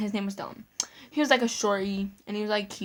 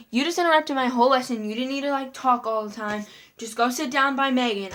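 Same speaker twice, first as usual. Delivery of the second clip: strict teacher; 3 semitones higher, 5 dB louder than usual. Retold or imitated. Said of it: "She was, like, a girl strict".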